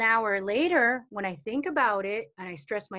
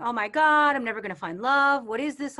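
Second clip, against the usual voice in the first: panicked worry; 7 dB louder than usual. Retold or imitated. Imitating a dater spiralling into panic, loud anxious outburst. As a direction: blurt it like the worry is taking over.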